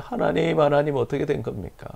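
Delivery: a touch of crying in a pleading prayer; tearful plea. Retold or imitated. Hagar pleads with God as her son is dying, mild tearful cry. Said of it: "소리 내어 울었어요".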